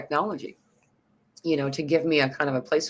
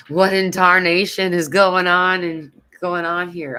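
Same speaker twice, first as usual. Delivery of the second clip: put-on old-timer voice; 4 semitones higher, 6 dB louder than usual. Jokey exclamation, then comments on the word.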